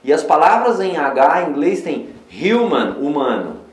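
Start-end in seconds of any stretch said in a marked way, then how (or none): 2.3-3.0 "human" as "HYOO-man"; sound of the U. Shown as a demonstration. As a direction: stretch the "you" sound in "human". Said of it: "olha o som do U".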